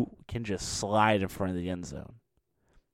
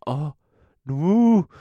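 fans whooping, higher and louder; a mock cheer from the fans; mock crowd whoop; 5 semitones higher, 7 dB louder than usual. LSU fans mock-whooping at the slide, higher and louder.

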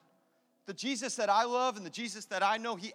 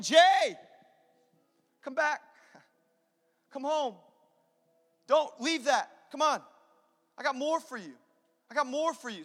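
urgent raised, higher-pitched call; crying out; 4 semitones higher, 4 dB louder than usual. Acted. Jesus calling a lost believer home, crying out. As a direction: call someone home, pleading from a distance. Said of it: "He's crying out for me".

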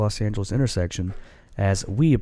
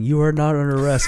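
mock cop line; 4 semitones higher, 4 dB louder, faster than usual. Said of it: "The idea of a cop saying".

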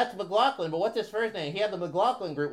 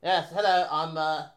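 mock British accent; 2 semitones lower than usual. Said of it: "Your British accent is very interesting here".

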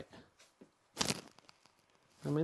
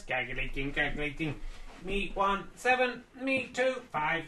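robot voice. Acted. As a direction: read the score like a robot. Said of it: "Let's see what robot voice says".

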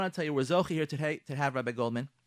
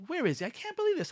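mock outraged wife; 11 semitones higher, faster than usual. Angry wife hunting husband.

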